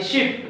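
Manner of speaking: शिप with a quick clipped i; short vowel. Shown as a demonstration. Teacher contrasting short शिप with long शीप. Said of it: "इसको बहुत short form में पढ़ा जा रहा है".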